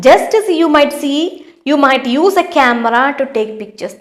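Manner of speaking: reading the question out very slowly; slow, deliberate classroom read-aloud; slow textbook reading. Acted. Teacher reads textbook sentence.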